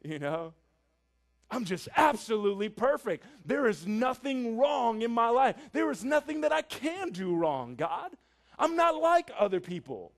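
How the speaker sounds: preen before God like a proud Pharisee; smug Pharisee. Acted. A preacher voicing the proud Pharisee's boastful self-praise. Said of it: "that's his attitude".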